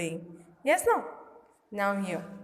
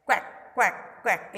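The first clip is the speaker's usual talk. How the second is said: duck quack. Shown as a demonstration. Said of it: "Like this, he is doing".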